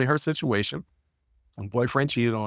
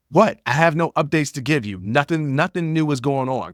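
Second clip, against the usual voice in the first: mock indignant "what?", then brush off the question; with an attitude; 3 semitones higher than usual. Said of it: "Kinda get an attitude with me".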